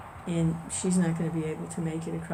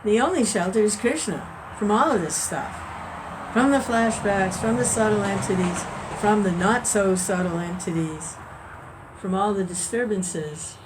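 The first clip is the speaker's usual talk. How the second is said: louder, rising emphatic preaching; fervent preaching; 3 semitones higher, 5 dB louder than usual. Real, not acted. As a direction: proclaim it with growing force. Preaching at full force on refuge.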